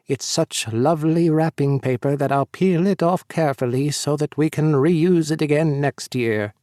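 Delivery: lightly voiced old-timer; a hint of a creaky old man; old-timey voice. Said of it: "he puts on an old-timey voice for this next bit".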